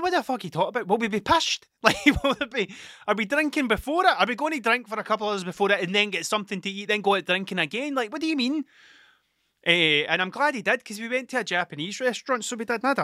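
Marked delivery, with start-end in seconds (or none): 0.0-8.6 baffled questioning. Retold or imitated. Acted baffled questioning of his mate.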